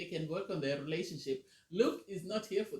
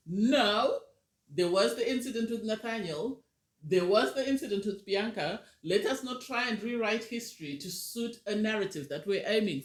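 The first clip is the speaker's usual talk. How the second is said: ranting; 3 semitones higher than usual. Real, not acted. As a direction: push back hard, refusing the rewritten story. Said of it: "I'm going to be ranting".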